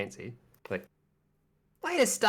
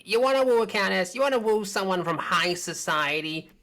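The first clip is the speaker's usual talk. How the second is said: salesy shopkeeper; 3 semitones higher than usual. Acted. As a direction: sell it like a market hawker, lifted. Shopkeeper pitching in voice.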